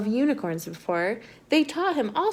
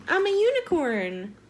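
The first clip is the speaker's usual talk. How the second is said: playful narwhal boast; 6 semitones higher than usual. Acted. Narwhal friend claims to be unicorn.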